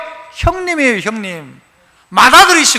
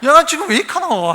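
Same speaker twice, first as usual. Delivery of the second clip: Gyeongsang dialect father; 3 semitones higher than usual. Retold or imitated. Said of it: "얘가 미쳤나".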